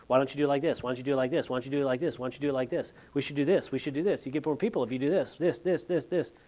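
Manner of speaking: rapid, repetitive nagging of a junior pastor; mock pestering, words tumbling on repeat; pestering questioning. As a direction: rattle off suggestions insistently, one after another. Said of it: "I remember questioning the way".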